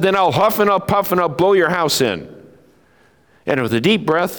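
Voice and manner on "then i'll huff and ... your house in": wolf voice. Acted.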